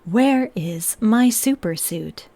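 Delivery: slow whispered robot; robot voice, whispering. Acted. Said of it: "I will say in the robot voice".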